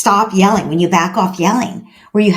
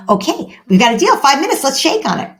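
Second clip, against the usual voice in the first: higher-pitched, upbeat deal-making; agreeable parent; 6 semitones higher than usual. Acted. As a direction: seal a bargain with a small child. Parent sealing deal with child.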